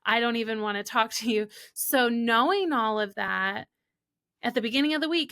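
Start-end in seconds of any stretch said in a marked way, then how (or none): 0.0-1.5 louder, irritated don't-bother-me; mock-grumpy luteal rant; grumpy refusal. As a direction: snap it like you're fed up. Irritable self in luteal phase.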